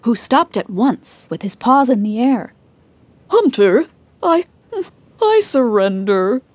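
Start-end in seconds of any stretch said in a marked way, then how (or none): 3.3-6.4 quick surrender. Acted. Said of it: "he said quickly".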